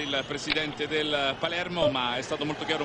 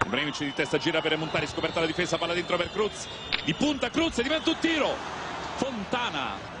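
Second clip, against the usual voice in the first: play-by-play commentary; 3 semitones higher than usual. Acted.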